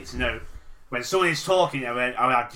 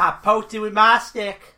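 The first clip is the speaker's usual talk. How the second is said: put-on high, loud, drawn-out redneck accent; put-on southern redneck voice, pitched way up; 9 semitones higher, 5 dB louder, slower than usual. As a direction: ham up a slow Florida redneck accent. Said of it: "like a South American redneck".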